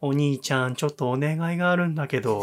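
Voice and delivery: fake cute pouty voice. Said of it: "急になんか猫なで声になってさ".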